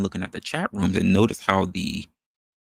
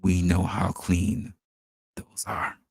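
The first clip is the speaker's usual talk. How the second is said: slow, pointed repeat; 4 semitones lower, slower than usual. Shown as a demonstration. Repeating the joke slowly so the audience catches it, drawn out and knowing. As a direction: drag it out, sly and knowing. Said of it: "gonna say that one more time".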